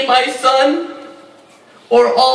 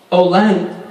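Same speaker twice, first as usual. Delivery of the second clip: grieving lament. Acted. Grieving mother addresses the land.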